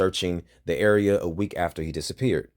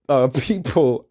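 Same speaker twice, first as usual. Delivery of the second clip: laughing; 4 semitones higher, 5 dB louder, slower than usual. Real, not acted. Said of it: "And I'm not laughing".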